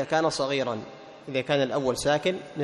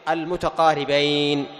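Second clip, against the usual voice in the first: "المتقاربين" drawn out very slowly and a little louder; slow emphasis; 4 dB louder, much slower than usual. Shown as a demonstration. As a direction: stretch out "المتقاربين" to make the point. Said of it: "من قبيل إيش؟".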